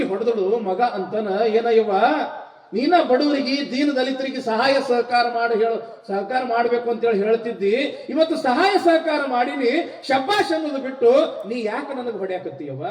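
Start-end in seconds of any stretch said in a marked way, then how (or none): 1.5-12.9 high-pitched protesting son; hurt protest. Acted. Slapped son asking his mother why she hit him, protesting. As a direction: argue back at a raised pitch, quickening at the end.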